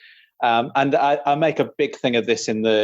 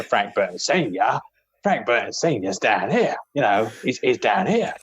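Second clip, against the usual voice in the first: Frank Burton Senior. Shown as a demonstration. Showing how the brother differs, in a down-here register. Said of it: "at a different pitch".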